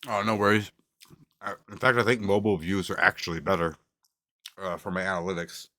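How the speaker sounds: talking with a mouth full. Real, not acted. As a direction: speak around a bite of burger. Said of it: "Sorry to talk with my mouth full".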